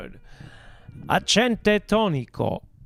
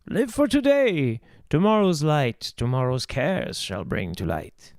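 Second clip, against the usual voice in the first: poem reading; 3 semitones lower than usual. Shown as a demonstration. Showing viewers how to read the verse, rising then falling. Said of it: "that's how you should read that".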